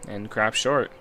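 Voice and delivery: measured, low-key reading aloud; story narration. Acted. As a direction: narrate it as an inner monologue. Reads visual novel narration.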